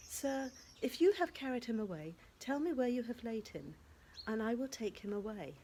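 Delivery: Mary begging to know where he lies; anxious plea. Acted.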